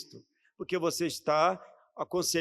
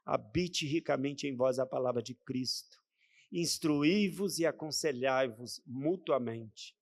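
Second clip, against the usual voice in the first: softer, slow and lower verse; soft solemn recital; 4 semitones lower, 5 dB quieter than usual. Acted. Preacher repeating the verse to the church, soft and slow. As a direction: let the verse settle gently on them.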